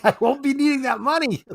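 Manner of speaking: high, spooky ghost impression; mock ghost voice. Podcast host voicing a ghost, high and spooky. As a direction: put on an eerie high voice for the dead woman. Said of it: "A ghost saying".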